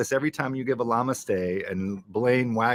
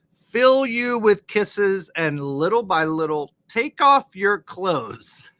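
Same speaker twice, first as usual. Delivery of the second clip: mock sultry reading; 7 semitones higher, 5 dB louder, slower than usual. Reading racy lyrics with mock passion.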